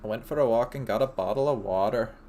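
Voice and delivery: bad British accent that comes out Irish; attempted British accent. Host asked to say it in JJ's accent, shaky British-Irish attempt. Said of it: "Wait, you say it then".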